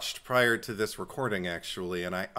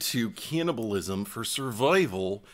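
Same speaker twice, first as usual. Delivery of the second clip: put-on Minnesota accent; 3 semitones lower, slower than usual. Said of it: "it was almost like Minnesota".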